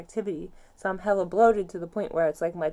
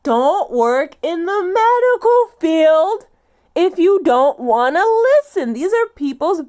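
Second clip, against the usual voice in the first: much louder and higher, each word driven hard; furious slow shout; 5 semitones higher, 14 dB louder, slower than usual. Real, not acted. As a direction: make the whole room hear it. Yelling at medical staff.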